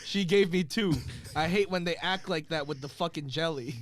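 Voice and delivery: flat, deadpan read of a rapper's rant; monotone voice. Shown as a demonstration. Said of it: "I'm gonna say it in a monotone voice".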